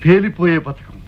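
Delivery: low plotter's pronouncement; scheming. Acted. Schemer announces plot. (కుట్ర పన్నుతున్న స్వరం)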